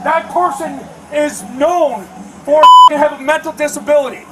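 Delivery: angry shout; shouting at trespasser. Real, not acted. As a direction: yell the accusation. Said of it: "Why are you yelling?".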